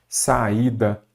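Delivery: "saída" with the a and í in separate syllables; separated vowels. Shown as a demonstration. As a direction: pause between "sa" and "ída" in "saída". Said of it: "ficam em sílabas separadas". ("saída" com as vogais em sílabas separadas)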